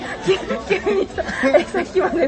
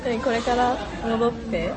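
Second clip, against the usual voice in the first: slow, carefully spaced mock of Siri dictation; slow mock robotic syllables; imitating dictation voice; slower than usual. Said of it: "正しく読み取らせる時の喋り方みたいな".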